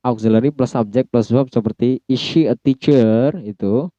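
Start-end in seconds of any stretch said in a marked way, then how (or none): 2.0-3.3 slow question rising on "teacher"; question intonation. Shown as a demonstration. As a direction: ask it, lifting the end of "teacher". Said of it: "kalimat interrogatif". (intonasi tanya, akhir "teacher" naik)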